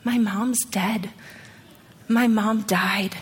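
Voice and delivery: slow, subdued retelling of bad news; understated sorrow, words drawn out; retold grief. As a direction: imitate a grieving girl, slowly and without sobbing. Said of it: "she's just crying".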